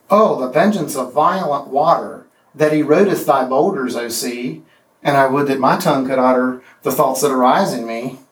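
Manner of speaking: lilting, rollicking recitation; deliberately weaker lilting reading; weak anapestic version. Shown as a demonstration. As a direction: read the rewrite with a bouncy lilt. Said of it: "the power drains away".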